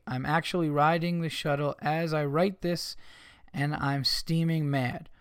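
measured read-aloud of an email; reading listener mail. Acted. Host reading a Boston listener's complaint, measured reading. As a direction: read it out evenly, slowing on the last phrase.

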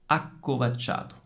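ACCOVACCIATO with brief stops before k and ch; pauses before CC. Shown as a demonstration. Teacher repeats with small pauses, careful ACCOVACCIATO. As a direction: hold each double C in ACCOVACCIATO. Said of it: "piccola pausa prima delle doppie C".

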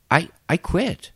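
slow, blank "I quit"; slow flat quitting voice. Retold or imitated. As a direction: say it slowly, clueless. Employee voiced in anecdote.

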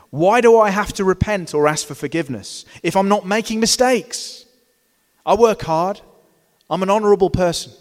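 loud, brash mock Trump boast; Donald Trump quote. Preacher quoting a president to his congregation, loud mock boast. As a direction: bellow it like a proud self-made man. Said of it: "I'm about to quote Trump from a pulpit".

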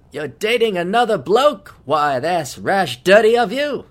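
a hint of an old-movie leading man; lightly hammed-up charming gent; lightly done Cary Grant. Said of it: "He sounds like Cary Grant".

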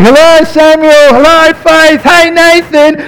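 put-on high, light sing-song calling of the kids' names; sing-song parent call. Dad calling hidden kids in a shop, high sing-song. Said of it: "and you're like".

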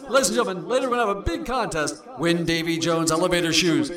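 hammed-up vintage radio pitchman; old-time radio announcer. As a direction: sell it like a fifties announcer. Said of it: "It's just fun to do those old-time radio announcers".

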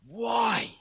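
high, loud cry of why; Jesus dying, crying out to God; yelled why. Retold or imitated. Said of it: "he yells out to God".

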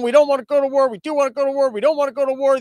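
hammed-up Russian flip-flopping; mock Russian accent. Russians going back and forth, loud mock Russian accent. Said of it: "I can't go back and forth in accents".

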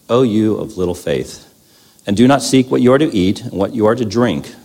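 measured reverent reading; scripture reading. Acted. Speaker reads Luke to the church, measured scripture reading.

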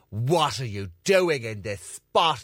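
slow, hammed-up indignation; mock indignant. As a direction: confront them in mock outrage, drawn out. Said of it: "all indignant and be like".

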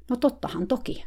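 high, sing-song mock "of course"; lightly hammed-up coach voice; mock coach reply. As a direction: play the great coach's eager "sure". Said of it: "suuri valmentaja sanoi".

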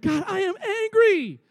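high, firm admission to God; high, earnest mock-confession; honest confession. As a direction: say it straight out for once. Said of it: "So I said".

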